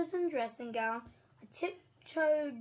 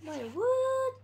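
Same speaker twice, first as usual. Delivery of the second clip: much higher startled wait what; real surprise; 10 semitones higher, 4 dB louder than usual. Real, not acted. Reader caught out by the page, surprised. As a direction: catch yourself off guard.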